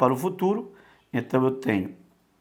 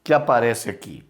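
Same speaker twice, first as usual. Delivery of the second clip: lightly higher curious student voice; student asking; 5 semitones higher than usual. Pretend. Teacher voicing a student asking about gama. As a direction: ask it like a puzzled student. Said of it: "Você agora me perguntou".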